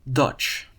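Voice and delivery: Dutch said the Dutch way with a short u, like dutch; Dutch word said in Dutch. Shown as a demonstration. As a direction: say Dutch as a native Dutch speaker would. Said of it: "He spells it D E T S J".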